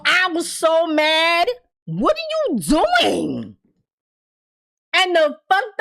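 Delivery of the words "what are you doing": slow exasperated plea. Real, not acted. Yelling at Victor again.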